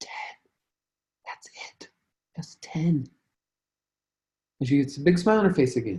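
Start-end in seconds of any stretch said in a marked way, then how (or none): 0.0-3.1 hushed whisper, very quiet, barely above breath. Retelling a sales talk with a client, retelling a whisper. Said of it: "and I whisper".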